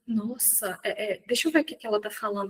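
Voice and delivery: soft, fast, curious aside; curious viewer. Retold or imitated. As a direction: murmur it, suddenly intrigued. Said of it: "a pessoa fala assim".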